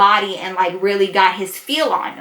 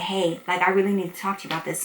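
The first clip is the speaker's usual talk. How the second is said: hushed urgent plea; 4 semitones lower, 8 dB quieter, faster than usual. Retold or imitated. Damien grabs her arm, whispering.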